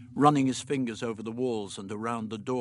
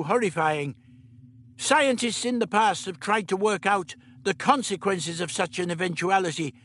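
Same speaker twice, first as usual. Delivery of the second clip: put-on higher, brisk old man voice; lightly voiced elderly scientist; the Doctor; 8 semitones higher, 3 dB louder than usual. A narrator's reading. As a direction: play the Doctor, matter-of-fact.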